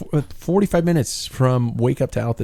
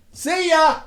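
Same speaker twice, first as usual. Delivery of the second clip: chirpy goodbye. Retold or imitated. Cheery goodbye while sneaking off.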